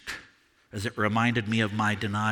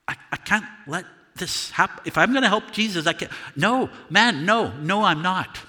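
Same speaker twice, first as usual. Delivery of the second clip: panicked inner denial; 6 semitones higher than usual. Acted. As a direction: scramble for a way out, scared. Peter panics inside, denying.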